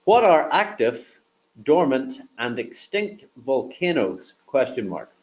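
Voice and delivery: slow, deliberate dictation; dictating. Shown as a demonstration. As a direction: read it out clearly for the microphone. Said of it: "just to show you that one more time".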